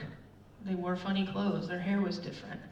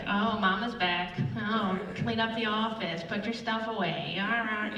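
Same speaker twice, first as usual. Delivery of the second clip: mock teasing. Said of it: "They made fun of me".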